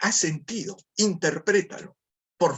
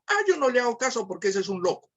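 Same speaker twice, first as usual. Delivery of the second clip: higher, fast, brushing it off as nonsense; a light imitation of someone shrugging off an insult; dismissive shrug; 3 semitones higher, faster than usual. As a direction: wave it away like the shouter is just crazy. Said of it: "unos dirán".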